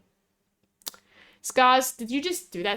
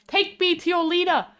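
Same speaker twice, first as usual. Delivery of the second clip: lightly put-on higher voice; a hint of a sci-fi visitor, pitched up; playful mock demand; 7 semitones higher than usual. Streamer heading underground on the tour, playful mock demand.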